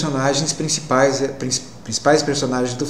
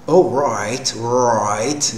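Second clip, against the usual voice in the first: American accent; 2 semitones lower, much slower than usual. Shown as a demonstration. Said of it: "ele tem mais rotação".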